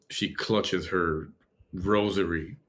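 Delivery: ordinary talk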